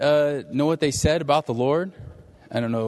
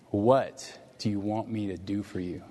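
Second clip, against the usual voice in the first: gentle question; 4 semitones lower, 6 dB quieter than usual. Acted. Voicing the Lord's gentle question.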